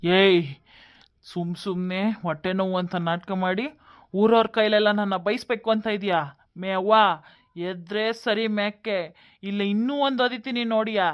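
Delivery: menacing son's voice; acted contempt and threat; angry bullying. Son bullies and threatens his mother.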